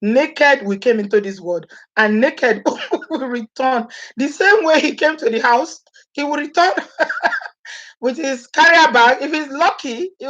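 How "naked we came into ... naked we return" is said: slow, solemn proverb voice that cracks into a laugh; solemn saying giggled through; slow solemn recitation. Retold or imitated. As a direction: intone it like a proverb, then laugh. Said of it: "how they say it".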